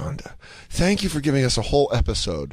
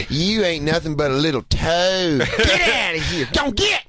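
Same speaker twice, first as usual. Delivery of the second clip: mother scolding; 3 semitones higher than usual. Retold or imitated. Mother shooing off her little toad son, mock scolding. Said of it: "She goes".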